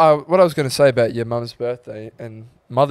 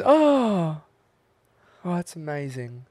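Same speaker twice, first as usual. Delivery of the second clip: mock mum voice; 4 semitones higher, slower than usual. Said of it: "And she goes".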